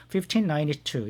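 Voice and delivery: Fifteen ninety-two said slowly and evenly, as one number; slow model reading. Shown as a demonstration. Teacher models Fifteen ninety-two as one slow reading. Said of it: "그냥 그대로 단순히 읽으시면 됩니다".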